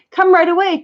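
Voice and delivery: loud, high urgent call; shouting. Acted. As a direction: shout for help. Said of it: "shouted Chang".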